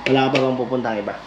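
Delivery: usual speaking voice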